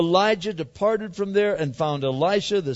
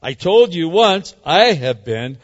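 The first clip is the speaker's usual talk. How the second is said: a hint of a sulky kid, louder; 9 dB louder, slower than usual. Elijah in pity party mode answering God, lightly childish. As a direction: whine it like a sulking child. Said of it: "kinda like a kid".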